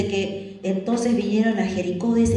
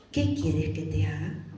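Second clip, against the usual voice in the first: calm asking; 5 semitones lower, 6 dB quieter than usual. Acted. Voices Jesus asking calmly.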